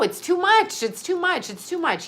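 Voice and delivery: repeated protest that fades out; high, fading repeats. Real, not acted. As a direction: repeat it, winding down. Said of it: "repeated phrase fading".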